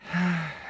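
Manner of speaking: soft, falling sigh; weary sigh. Acted. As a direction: let out a tired sigh. Weary reply about missing friend.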